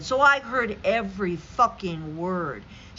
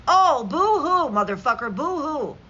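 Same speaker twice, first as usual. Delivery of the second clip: mock boo-hoo; 3 semitones higher, 4 dB louder than usual. Real, not acted. Mocking Peters can't be pardoned.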